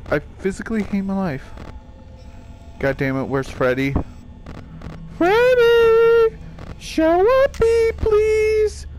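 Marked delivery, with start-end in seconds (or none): 5.2-8.8 high, loud pleading yell; frantic call. Real, not acted. Player yelling at Freddy to reveal himself. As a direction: call out desperately for him to appear. Calling the animatronic in panic.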